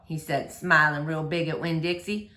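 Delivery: gentle, lively read-aloud voice; story reading for children. A narrator's reading. Teacher reading a chapter book to boys and girls, lively read-aloud. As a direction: read it like story time for kids.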